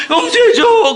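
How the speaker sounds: high, loud mock-tearful plea; begging plea. Mother begging her toddler for forgiveness, high tearful plea. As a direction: beg the toddler, whimpering high.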